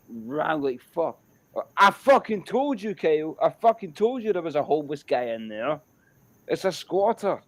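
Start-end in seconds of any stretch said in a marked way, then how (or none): 1.8-7.4 panicked told-you-so. Retold or imitated. Scolding friend while running away.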